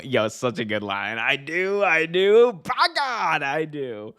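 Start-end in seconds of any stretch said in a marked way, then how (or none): 1.2-4.1 high, climbing wrestler's cry; hammed-up wrestling vow; mimicked wrestling promo. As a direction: imitate a promo climax, peaking then dropping off.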